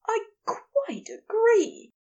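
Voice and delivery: high, slow, thickened voice; reply thickly, drawing it out high; thick-voiced. A narrator's reading. Aziraphale answering Crowley in bed, thick-voiced. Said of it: "Aziraphale replied thickly".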